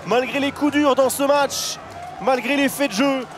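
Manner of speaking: excited. Real, not acted. Final whistle call.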